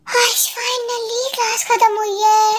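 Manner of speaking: slow, drawn-out tired relief; weary relief. Acted. Student relieved the long class is over, wearily. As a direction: drag the words out, worn out.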